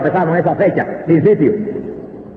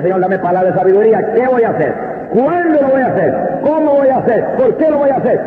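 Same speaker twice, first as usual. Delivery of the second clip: a mock pastor's plea to God, climbing higher with each question; imitated pleading prayer; 3 semitones higher than usual. Pastor on his knees asking God for wisdom, rising pleading. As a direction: beg the Lord for wisdom, each question pitched up.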